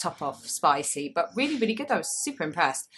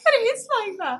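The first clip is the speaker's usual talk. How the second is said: high, louder words through laughter; laughing; 7 dB louder than usual. Real, not acted. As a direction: speak while still cracking up. Still laughing.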